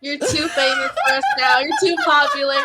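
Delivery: laughing, playfully hurt accusation; mock betrayed teasing. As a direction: tease a friend for ditching you. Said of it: "I mess with them about, like, being famous".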